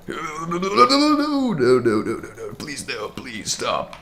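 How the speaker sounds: high, loud desperate no's; panicked pleading. Real, not acted. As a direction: beg in sheer panic.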